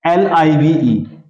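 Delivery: slow letter-by-letter spelling. Shown as a demonstration. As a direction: spell each letter slowly. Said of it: "दोनों की spelling क्या है?".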